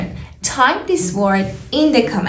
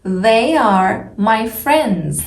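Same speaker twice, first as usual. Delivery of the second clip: slow careful speech; slower than usual. Shown as a demonstration. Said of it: "Can you hear the differences".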